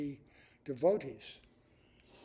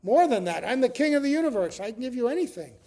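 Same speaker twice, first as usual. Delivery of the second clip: raised, loud voice of a proud king; boastful king, loud and lifted; boasting king; 8 semitones higher, 10 dB louder than usual. Acted. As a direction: declare it grandly, high and loud. Bali boasting as king of universe.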